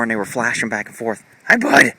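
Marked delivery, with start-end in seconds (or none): 1.5-1.9 bright greeting. Real, not acted.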